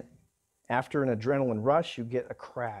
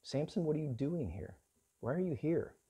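softer, searching rebuke; God to Samson; 3 semitones higher, 7 dB quieter than usual. Acted. God questions Samson on Delilah's lap, softly. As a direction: ask Samson quietly, like a sorrowful father. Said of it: "God could have said it to Samson".

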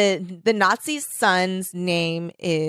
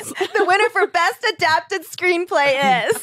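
higher, slow announcer voice; awards announcer; 10 semitones higher, slower than usual. Pretend. Host announcing the award winner, slow announcer voice. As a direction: announce it like the Oscars.

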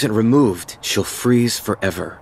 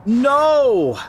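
sudden high "No!"; flustered denial; 12 semitones higher, 3 dB louder than usual. Acted. Kristoff quickly denying he and Anna are a couple, flustered. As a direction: blurt it out, embarrassed.

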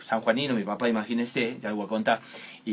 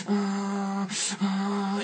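put-on child's whimper; 7 semitones higher than usual. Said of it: "el famoso".

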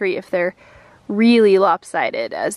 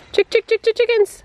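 high sing-song chicken call; 11 semitones higher than usual. Real, not acted. Calling chickens to grub.

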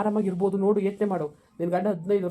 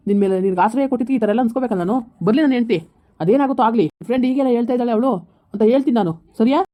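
louder, heated telling-off; angry rebuttal; 2 semitones higher, 6 dB louder than usual. Acted. Accused man angrily tells Nikita to watch her words. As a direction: push back hard, offended and threatening.

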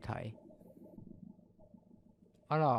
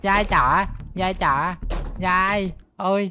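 high, loud frantic begging; panicked pleading; 4 semitones higher, 7 dB louder than usual. Real, not acted. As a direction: beg in terror. Pleads with chasing grandma ghost.

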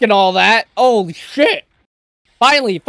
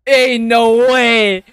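slow, drawn-out disbelief; real stunned exclamation; 4 dB louder, much slower than usual. Real, not acted. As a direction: stretch it out, astonished. Disbelief at fight.

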